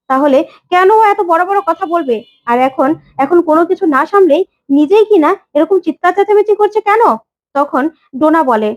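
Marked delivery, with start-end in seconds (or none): 0.1-7.0 rising into a higher, heated rebuke; in-law shouting down a rude relative in a family fight; angry scolding. Acted. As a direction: scold her, pitch climbing at the end. Quarrel, Ranjini scolds Dona.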